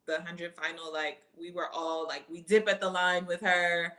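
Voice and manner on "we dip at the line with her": thrilled retelling of the race finish; excited. Retold or imitated. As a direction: dip stressed, said louder with a lunge.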